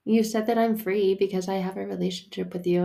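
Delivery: high, loud plea that settles down; pleading to God. Retold or imitated. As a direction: cry out to God, then calm. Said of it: "I'm like".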